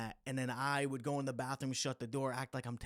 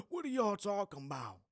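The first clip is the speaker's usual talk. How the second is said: imitating his yelling; 8 semitones higher than usual. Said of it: "hearing him yell at these guys".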